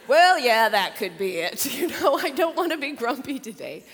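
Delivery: put-on grandma explaining grumpy to the girls; emphatic grandma. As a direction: sell it to the little ones. Grandma answering the girls earlier.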